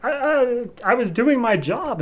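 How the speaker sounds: high, stammering and caught out; flustered stammer. Retold or imitated. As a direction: stumble over the I as if cornered. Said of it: "And she's like".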